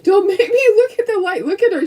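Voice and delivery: high whiny pup voice; voicing the dog. Speaking for her dog about camera light, high whine. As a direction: play the dog refusing light. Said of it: "she's like".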